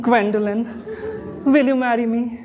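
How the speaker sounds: slow, drawn-out tender name; tender plea. Acted. Suitor to Gwendolyn before proposing, slow and tender.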